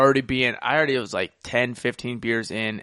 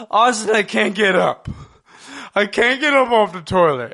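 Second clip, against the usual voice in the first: mock drunk plea; 7 semitones higher, 5 dB louder than usual. Drunk calling roommate for help.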